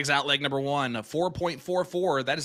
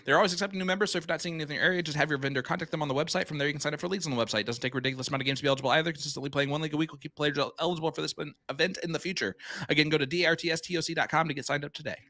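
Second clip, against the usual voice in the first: auctioneer voice; faster than usual. Pretend. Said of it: "my auctioneer voice".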